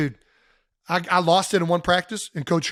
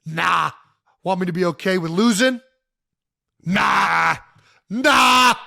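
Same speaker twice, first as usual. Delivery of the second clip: fired-up quote; 4 dB louder than usual. Retold or imitated. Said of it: "he also said".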